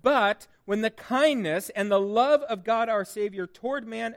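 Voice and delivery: measured, emphatic reading of scripture. Real, not acted. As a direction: read the verses out phrase by phrase to a congregation. Reads scripture aloud to congregation.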